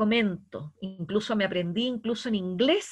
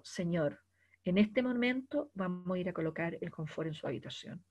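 soothing manager; 2 semitones lower than usual. Acted. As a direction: apologize gently to the angry guest. Host role-plays an apologetic manager. (gerente que calma al huésped enojado, voz suave)

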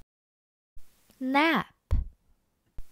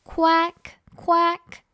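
high, louder storybook quack; lightly voiced duck on a raised pitch; calling duck; 6 semitones higher, 5 dB louder than usual. A narrator's reading. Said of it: "called the duck".

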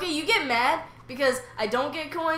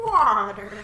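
loud, falling neighed word; whinny the word out; horse impression; 5 semitones lower, 7 dB louder than usual. Friend revives the horse gag, neighing loudly.

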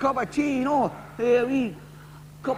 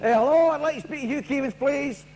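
timid caller; 6 semitones higher than usual. Acted. Nervous caller asks for Keevins.

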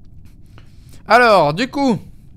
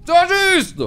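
indignant protest; 13 semitones higher, 5 dB louder, much slower than usual. Real, not acted. Just eliminated, protests loudly.

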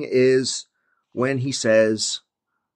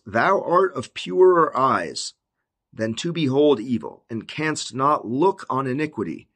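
put-on measured reading of old verse; scripture reading. Prophet's complaint to the Lord, read out deliberately. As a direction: start slowly, spacing out the phrases.

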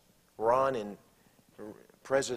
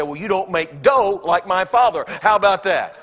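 sassy comeback; 8 semitones higher, 15 dB louder than usual. Acted. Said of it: "She'll come back and say".

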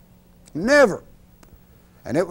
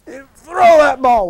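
loud, higher, slow stretched command; hammed-up wind-up; 7 semitones higher, 9 dB louder, much slower than usual. Uncle Dolphus hauls back at the milk bottles, loud and drawn out.

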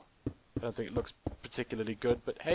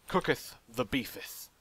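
mock old English. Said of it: "I'm not sure what I'm going with there".

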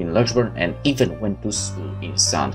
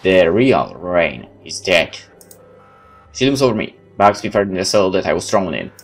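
dramatic first-person game narration, louder than chat; story narration; 4 dB louder than usual. Acted. Player reading a game's story aloud, dramatic narration. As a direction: tell it like a dramatic tale.

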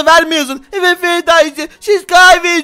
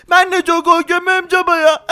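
put-on lightly raised child voice, relieved and grateful; a spider boy thanking his dad, a little higher; spider kid; 3 semitones higher than usual. (hafif ince sesli örümcek çocuk)

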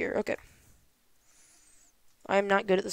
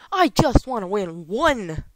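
raging gamer; 5 dB louder, slower than usual. Real, not acted. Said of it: "Really ticked off".

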